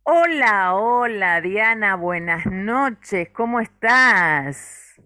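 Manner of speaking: bright, high and loud hello; excited greeting. Real, not acted. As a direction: greet her with big on-air enthusiasm. Host greets guest on air. (saludo efusivo en voz alta)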